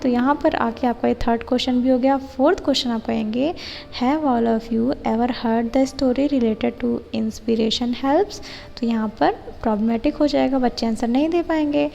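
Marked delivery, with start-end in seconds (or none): 4.0-8.4 slow, word-by-word read-out of the plan; slow dictation reading. Shown as a demonstration. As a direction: read it slowly so students can write it down. Reads lesson-plan question aloud. (धीमे-धीमे लिखवाने वाले अंदाज़ में पढ़ना)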